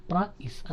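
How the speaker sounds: ప్రైస్ broken into "pra, is"; split diphthong. Shown as a demonstration. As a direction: separate the a and i in ప్రైస్. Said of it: "అనాలి".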